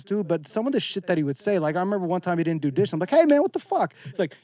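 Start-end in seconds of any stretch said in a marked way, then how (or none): 3.1-3.9 high, indignant retold complaint; retold mild yell. Confronting an old roommate over the dishes, mild retold yell. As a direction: call out the roommate, half-yelling. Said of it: "yell at me like that".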